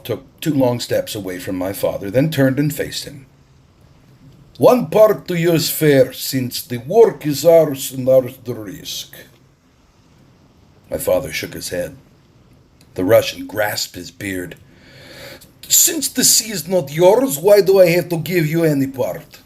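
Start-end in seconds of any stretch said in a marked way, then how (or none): 4.6-9.1 higher, louder, commanding stranger; bold Russian captain. A narrator's reading. Russian captain to the island chief, higher and louder. 15.7-19.4 higher and louder, challenging; scornful Russian captain. A narrator's reading. Captain mocks the chief's claim to the sea, loud.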